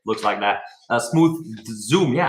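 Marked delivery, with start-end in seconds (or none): 1.0-2.1 slow, carefully spelled-out words. Shown as a demonstration. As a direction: say it slowly and clearly. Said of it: "I can't talk English with, uh, with my gum in my mouth".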